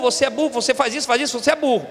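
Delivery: ordinary talk, nothing marked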